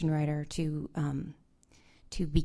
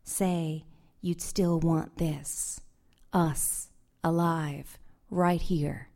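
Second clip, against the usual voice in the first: measured, unhurried poetry reading; poem reading; slower than usual. Acted. Poet reading her poem to the audience, measured and unhurried. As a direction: read each image slowly to the room.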